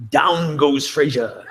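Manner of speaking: slow, drawn-out mock ringside call; lightly imitated boxing commentator; sports call imitation. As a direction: stretch each word like a fight announcer, lightly. Quoting a famous sports call.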